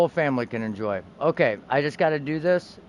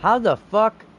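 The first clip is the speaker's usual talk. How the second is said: disbelief; 5 semitones higher, 5 dB louder than usual. Real, not acted. Gamer stunned mid-game.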